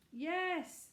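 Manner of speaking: high, loud yes; shouted reply. A narrator's reading. Children answering from the tower, shouting. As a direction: shout back from far away. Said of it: "shouted four faraway voices".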